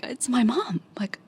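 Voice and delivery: reliving a rush of relief and joy; lightly acted elation, pitch lifted; retold overwhelming happiness. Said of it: "overwhelming happiness".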